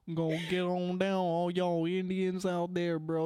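lightly put-on Southern accent. Riffing to the co-hosts about getting on down, mock Southern accent. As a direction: play at a stereotypical Southern voice. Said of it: "the stupid Southern bullshit".

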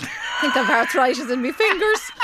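words breaking into real laughter; laughing complaint. Real, not acted. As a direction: moan through helpless giggles. Colleague laughing at own failure.

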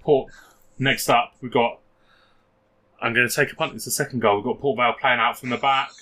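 lightly voiced match commentary; radio commentary. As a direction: call the goal like local radio. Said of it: "Be, be Steve Watkins".

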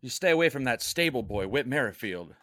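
mock British guardian voice; British accent. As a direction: warn him off in a British accent. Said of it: "that's your spot on British accent".

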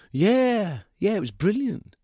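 put-on high boyish gushing voice; enthusiastic young man. A narrator's reading. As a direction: gush like a keen kid. Sam voiced as enthusiastic youth.

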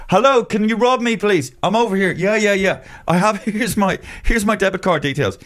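mock naive victim. Mocking himself begging the scammer to rob him, high eager voice. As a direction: offer yourself up to be robbed, cheerfully. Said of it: "I willingly walked into my own fucking robbery".

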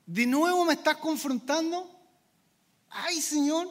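mild mock grumble at the Lord; whiny complaint. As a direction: moan it like a believer sick of correction. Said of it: "Respondemos con ese".

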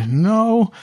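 very high, squeaky little halfling voice; halfling Amelia. Acted. GM voicing the halfling urging the party inside, high and squeaky. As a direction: squeak it out in a tiny urgent voice.

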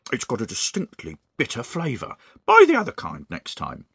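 Mr Twit complaining. Acted.

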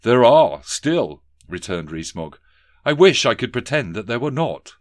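a lightly voiced toff asking politely; pompous gentleman. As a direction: collector addressing the office owner. Rees-Mogg answers.

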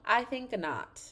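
firm dismissal. Real, not acted. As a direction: dismiss it firmly, starting high. Dismissing the trip, first take.

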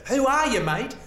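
very high, loud acted demand; loud challenge. Comedian turns on Dan in the audience, loud challenge. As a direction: fling the question at him from the stage.

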